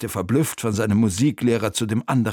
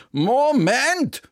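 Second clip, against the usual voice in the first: high, loud, decisive interjection; firm objection; 12 semitones higher, 3 dB louder than usual. A narrator's reading. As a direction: cut in firmly with a raised voice. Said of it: "ein entschiedenes". (entschiedener, hoher Einwurf)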